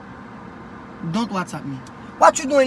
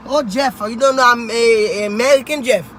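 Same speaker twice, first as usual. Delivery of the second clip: put-on thick African accent, nagging his son; strong African accent. Son asks why dad's African accent is so strong. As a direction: lay the African accent on heavy. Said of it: "Why your accent so strong?".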